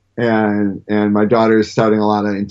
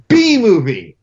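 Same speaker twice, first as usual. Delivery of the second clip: imitating daughter; 9 semitones higher, 4 dB louder, slower than usual. Daughter's sudden remark mid-movie.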